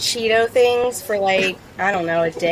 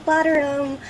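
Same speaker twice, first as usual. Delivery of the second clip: rising higher and louder with each line; giddy plant doting; 10 semitones higher, 5 dB louder than usual. Retold or imitated. She fusses over her new petunias, building to a delighted squeal. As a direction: gush over the petunias like a proud parent. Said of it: "every day was like".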